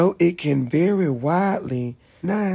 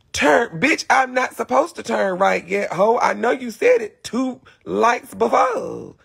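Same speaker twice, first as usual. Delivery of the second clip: irritated comeback; 5 semitones higher than usual. Acted. Talking back to the GPS.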